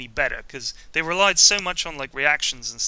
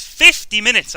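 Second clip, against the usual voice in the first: loud, higher cry of disbelief; loud incredulous exclaim at his own stats; incredulous shout; 6 semitones higher, 10 dB louder than usual. Real, not acted. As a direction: blurt out "Fifty minutes!" in shock.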